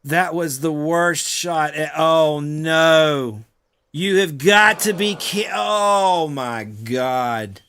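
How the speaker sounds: high, drawn-out wail of frustration; frustrated outcry. Real, not acted. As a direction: howl at the missed shot, really upset. Missed golf shot, player outburst.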